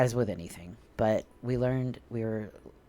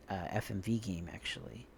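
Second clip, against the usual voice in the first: whispering; 2 semitones lower, 6 dB quieter than usual. Real, not acted. Whispered aside mid story.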